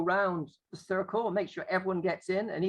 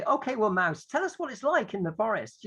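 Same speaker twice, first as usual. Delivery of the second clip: teacher in role; 4 semitones higher than usual. Acted. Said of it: "The teacher might say".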